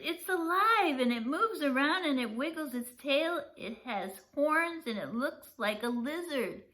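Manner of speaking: high, loud breathless babble; boy shouting to his family; excited shouting. Acted. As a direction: pour the news out in a rush. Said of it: "I shouted".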